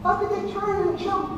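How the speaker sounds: hammed-up alarm at the blocks; mock panic. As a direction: pretend panic, rising pitch. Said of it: "now I'm panicking".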